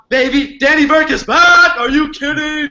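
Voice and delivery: high, loud, drawn-out cheer; elated celebration. Real, not acted. Guest celebrating getting his account back, elated.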